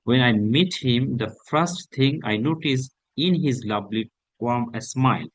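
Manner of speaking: slow, deliberate reading of a sample answer; slow model reading. Acted. Teacher reading a sample answer to students, slow and deliberate. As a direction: read it out slowly for students to follow.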